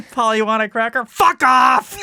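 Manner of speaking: high, loud squawk ending in a snap; cursing parrot. Pretend. Parrot answering the cracker offer, high loud squawk. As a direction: chirp then bark it like a rude parrot.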